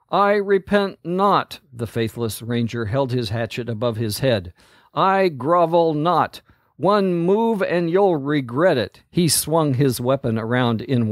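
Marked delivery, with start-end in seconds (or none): 0.1-9.0 defiant threat. Acted. Ranger defies commander, threatening.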